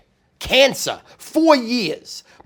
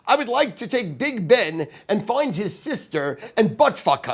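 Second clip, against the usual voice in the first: put-on lower, muddled English accent; mock English accent; 3 semitones lower, 4 dB quieter than usual. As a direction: mangle it in a fake English accent. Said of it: "we can't understand you right now".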